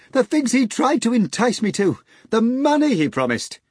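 high mock-outraged cry; laughing scream. A narrator's reading. Natasha mocks the hog, high laughing cry. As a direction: scoff while cackling. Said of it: "Natasha screamed, laughing".

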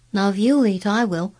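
lightly voiced, keen young boy; eager boy Colin. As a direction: coax a friend to share tea.

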